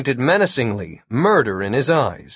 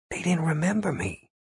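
whispering; 5 semitones higher, 7 dB quieter than usual. A narrator's reading. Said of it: "Jimmy whispered".

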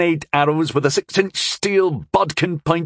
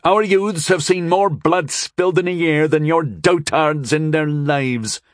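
even, higher-pitched proud lady; proud, pitched-up boast of bloody history; proud recital; 7 semitones higher than usual. A narrator's reading. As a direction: recite it unhesitatingly, with supreme confidence. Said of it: "but she said it proudly".

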